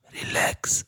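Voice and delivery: put-on breathy Russian-accented whisper in the ear. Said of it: "auf Englisch mit russischem Akzent ins Ohr geflüstert".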